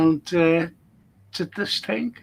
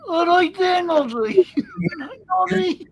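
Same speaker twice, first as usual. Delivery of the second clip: higher, louder playful call; joking that the host is Noddy, high and playful; teasing; 10 semitones higher, 3 dB louder, slower than usual. Pretend. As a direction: tease him like a mate.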